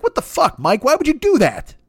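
very high, squealed outrage; hammed-up incredulous complaint, pitch way up; mock exasperation. Kid teammate berates failed quarterback Mike, mock exasperation. Acted angry teammate after blown play.

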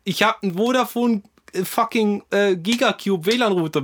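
heated. Real, not acted. Heated argument with friend.

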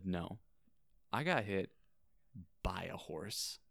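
"hit" set apart, then "by a horse" dropped softly; deadpan correction. Retold or imitated. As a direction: pause before a quiet "by a horse". Retold correction, punchline of story.

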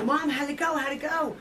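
retold anxious eagerness; eager questioning. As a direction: press gently for news. Eagerly asking mother for news.

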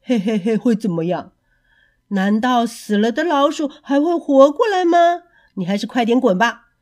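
smug chuckle into a dismissive brush-off; mayor mocking the piper, smug and scornful; sneering mayor. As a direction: laugh him off, then tell him to get lost.

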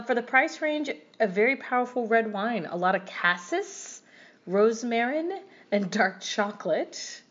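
lightly voiced foreign reviewer; reading review aloud. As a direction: read it like a non-native reviewer. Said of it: "I'm not sure English is their first language".

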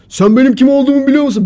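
loud, high-pitched "do you know who I am" bluster; mock indignant shouting. Imitating the man who got up and started shouting, loud and high. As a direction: yell it like a self-important man. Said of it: "Bağırmaya başladı gene".

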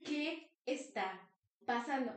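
slow, stunned question with pauses; acted-out bewilderment, very slowly; stunned disbelief. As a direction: draw it out as if frozen in mild shock. Three left stunned, acted out.

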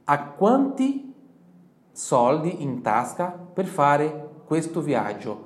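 slow, careful Italian for repeating; slow teacher model sentence; slow model phrase. Shown as a demonstration. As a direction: say each word slowly for learners to copy. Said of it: "Então, quando eu falo io ho".

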